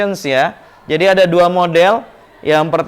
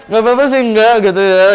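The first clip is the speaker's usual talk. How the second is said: laughing mock reply; 7 semitones higher, 5 dB louder, faster than usual. Mocks a forced polite reply.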